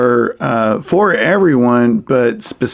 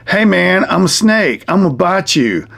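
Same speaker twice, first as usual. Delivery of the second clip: slightly raised puppet-show snake; lightly voiced snake puppet; 5 semitones higher than usual. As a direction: play a cocky snake making a mock threat. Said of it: "And the snake says".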